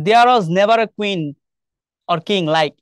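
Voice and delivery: very slow, each word separate; reading a line slowly. Shown as a demonstration. Teacher reads the repeated poem line slowly for students. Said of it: "এই যে এই কথাটা".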